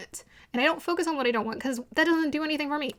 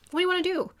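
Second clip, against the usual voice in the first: much higher, pushing the question; emphatic repeat; 7 semitones higher, much faster than usual. Shown as a demonstration. Pressing the client again about her dreams, emphatic and high. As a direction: urge her to answer this time.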